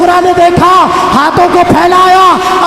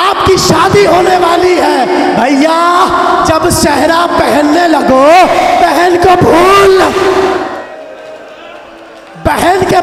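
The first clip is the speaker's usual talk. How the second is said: majlis lament. Acted. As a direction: cry the sister's plea to the gathering. (مجلس کا پُرسوز نوحہ، بلند آواز میں)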